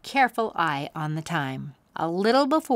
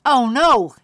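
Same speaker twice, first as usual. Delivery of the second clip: sudden higher, louder gasp of alarm; 6 semitones higher, 11 dB louder than usual. Acted. Boy realising they're nearly late, alarmed. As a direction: blurt it out in sudden panic. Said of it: "he said".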